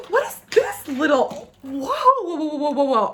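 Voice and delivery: high gasp, then tumbling whoas; amazed. Real, not acted. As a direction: react in giddy astonishment. Amazed by a new product.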